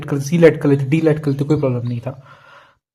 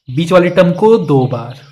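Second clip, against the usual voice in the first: slow and a bit louder, each word set apart; slow, emphatic dictation; 3 dB louder than usual. Shown as a demonstration. Teacher dictating a rule slowly to students. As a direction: spell out बीच वाले term को दो बार slowly so students note it down. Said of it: "ये concept याद रखना है".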